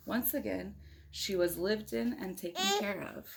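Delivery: put-on reading a picture book aloud to a child; steady storybook read-aloud; story narration. A narrator's reading. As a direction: tell it like a bedtime story. Parent reads picture book aloud.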